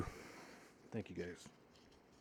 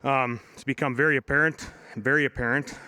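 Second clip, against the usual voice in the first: yelling; 2 semitones higher, 3 dB louder than usual. Real, not acted. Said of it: "I'll just yell".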